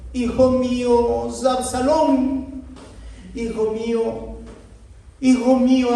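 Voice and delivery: loud, high, anguished cry of a father for his dead son; David mourning his son Absalón, loud and high; weeping lament. Acted. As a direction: cry out as a grieving king. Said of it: "y lloró, y yendo decía así".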